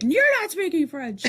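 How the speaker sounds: high, slow mimicking voice; mocking parroting. Student mimicking the woman who corrected them, mocking parroting. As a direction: parrot it back, drawn out and mocking.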